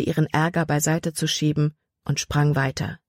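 ordinary delivery

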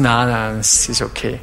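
low, quiet brush-off; dismissive mumble. Retold or imitated. Preacher playing a Christian dodging questions on giving, muttered. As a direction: mutter it away, unbothered.

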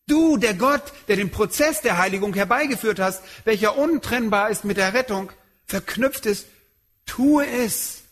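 a lightly voiced pleading prayer; Paul praying. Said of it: "Und deshalb sagt Paulus".

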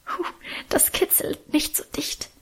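high, soft whisper with a laugh in it; giggling whisper. Acted. Mother tickled by whispering children, giggling whisper. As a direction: fend off the tickle, half laughing. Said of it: "wehrte sie leise lachend".

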